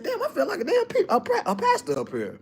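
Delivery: high and laughing, breaking into a chuckle; laughing self-quote. Retold or imitated. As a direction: laugh it out like you can't believe the heat. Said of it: "I said".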